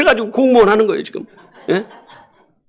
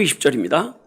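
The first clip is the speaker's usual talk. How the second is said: normal talking voice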